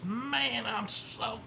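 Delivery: high-pitched retold amazement; imitating excited Eric. Eric comes up after the run, imitated as excited. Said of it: "Eric's so excited".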